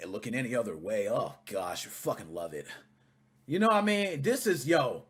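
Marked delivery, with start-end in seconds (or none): 0.1-2.7 mocking imitation. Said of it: "the same fucking asshole that's about to talk says".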